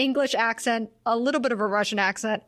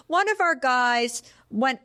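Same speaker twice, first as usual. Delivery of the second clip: put-on talking to a child; 3 semitones higher than usual. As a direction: mimic breaking news gently to a child. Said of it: "speaking a lot to him like he's a child".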